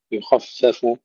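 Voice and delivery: يخفف with a full dark خ, light ف; heavy kha, thin fa. Shown as a demonstration. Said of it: "تفخيم الخاء وترقيق الفاء". (يخفف بخاء مفخمة وفاء مرققة)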